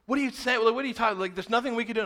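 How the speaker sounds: retold burst of angry disbelief; mock outrage. Youth leader confronts friend over cancelled plans, angry disbelief. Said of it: "I got very red".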